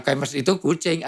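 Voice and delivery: "Campus itu kucing" run together as one statement; wrong phrasing. Shown as a demonstration. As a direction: join "Campus itu" to "kucing", as if equating them. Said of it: "bahasanya salah, tidak indah". (intonasi salah, "Campus itu kucing" disambung)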